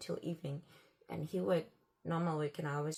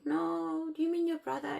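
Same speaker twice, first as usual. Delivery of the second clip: high, louder protesting question; retold disbelief; 10 semitones higher, 5 dB louder than usual. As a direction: act out a baffled objection. Retold confrontation over a hidden son.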